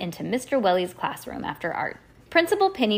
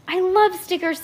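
put-on girl character voice; 11 semitones higher, 3 dB louder than usual. Lucy voiced in story.

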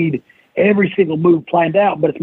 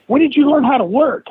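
much higher, mock amazed question; mock surprised wrestlers; 10 semitones higher than usual. Backstage wrestlers teasing the narrator, high mock surprise. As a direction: pitch it way up, teasing disbelief. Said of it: "they were like".

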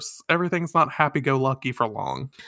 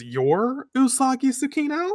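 put-on much higher child's question; lightly voiced child; little kid voice; 11 semitones higher than usual. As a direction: pitch up into a curious little kid. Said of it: "the little kid says".

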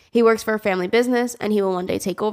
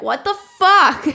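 baffled what the fuck; 9 semitones higher, 5 dB louder, slower than usual. Retold or imitated. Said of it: "I'm like".

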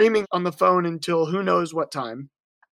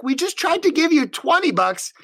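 exasperated; 5 semitones higher than usual. Retold or imitated. Baffled by the driver's request.

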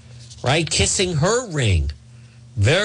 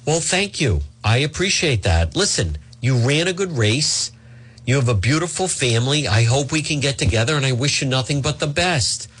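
gracious concession. Retold or imitated. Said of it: "they could have turned it into like".

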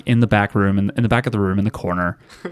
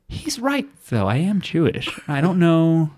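half-amused realisation, voice lifted; a surprised inner voice, lightly done; high surprised musing; 5 semitones higher than usual. Retold or imitated. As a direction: pitch up in wonder, lightly. Retold inner surprised thought.

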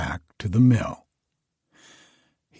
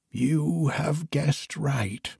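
put-on old woman; 4 semitones higher, 5 dB quieter, slower than usual. A narrator's reading. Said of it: "answered the old woman".

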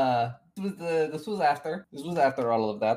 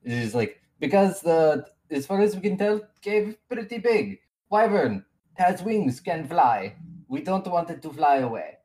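lightly voiced accented NPC, a bit flustered; 3 semitones higher than usual. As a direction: introduce your party in the NPC's accent.

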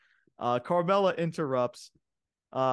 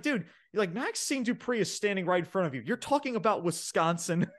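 mock incredulous, pitched up; Corey Graves; 6 semitones higher than usual. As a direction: imitate an exasperated commentator calling out his partner. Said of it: "Corey Graves is that one shining light".

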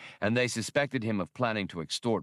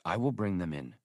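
cool. Acted. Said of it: "Galandro repeated coolly".

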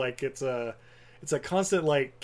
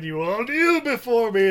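slow, loud, higher tyrant command; cold rasping evil emperor; 8 semitones higher, 7 dB louder than usual. Retold or imitated. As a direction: command them to kneel, slowly. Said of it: "he starts going".

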